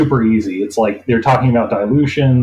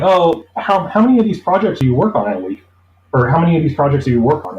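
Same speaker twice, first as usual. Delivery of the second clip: higher, fast curious interviewer; quoting the interviewer; 3 semitones higher, faster than usual. Retold or imitated. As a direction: rattle off the question like a casual interviewer. Interviewer asks about workload.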